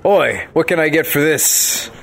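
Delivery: put-on old sailor. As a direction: growl it out like a deckhand. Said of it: "I pretend to be a sailor".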